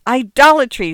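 loud, high outraged cry; scandalised, high-pitched denunciation; screaming. A narrator's reading. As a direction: hurl it as an accusation. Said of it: "Sarah Ruth screamed".

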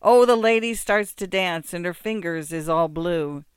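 tipsy and carried away; drunk muzhik. Acted.

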